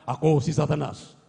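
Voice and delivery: low, menacing devil voice; Satan's voice. Retold or imitated. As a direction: drop low and speak as Satan. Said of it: "Boses ni Satanas". (mababang boses ni Satanas)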